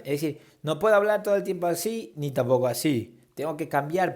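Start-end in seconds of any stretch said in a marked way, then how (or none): 0.8-2.1 held high, louder, one note; high monotone voice. Shown as a demonstration. Teacher showing a monotone that is too high. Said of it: "agudo o grave". 2.2-3.2 dropped lower, stuck on one note; low monotone voice. Shown as a demonstration. Teacher showing a monotone that is too low. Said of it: "agudo o grave".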